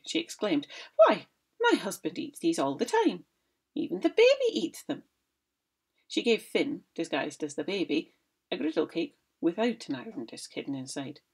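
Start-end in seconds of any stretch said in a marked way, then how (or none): 1.0-5.0 high, louder boasting wife; mock-innocent wife bragging; Una's voice. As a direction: brag innocently to scare him. Una voiced in story.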